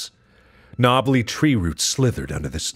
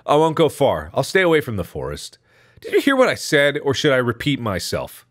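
put-on arguing boy; 7 semitones higher, 3 dB louder than usual.

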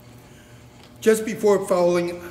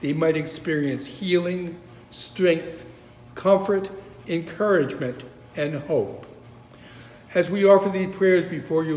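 reverent, measured prayer voice. Acted. Leads a spoken prayer.

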